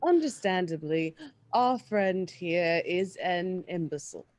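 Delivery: haughty, measured bartering tone; snooty voice. Acted. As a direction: look down your nose while haggling. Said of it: "I wanna absorb the snooty voice to barter".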